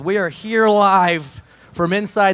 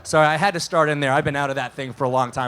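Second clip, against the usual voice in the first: winded after climbing out; puffing, out of breath from the car; 4 semitones lower than usual. Real, not acted. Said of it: "I'm, I'm out of breath".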